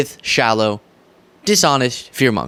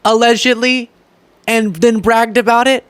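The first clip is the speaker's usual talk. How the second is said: incredulous; 9 semitones higher, 3 dB louder than usual. Real, not acted. Outraged disbelief.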